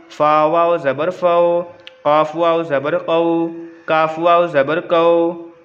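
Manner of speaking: slow, level drill chant; spelling recitation. Shown as a demonstration. Teacher reading it all out for pupils, slow even recitation. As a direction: recite letter by letter on one even tone. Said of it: "पूरा पढ़ के ही बता देता हूँ".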